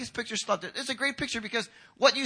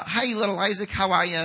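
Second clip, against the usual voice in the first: perfunctory greeting, mocked; 6 dB louder than usual. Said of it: "It wasn't like when Jesus kinda said".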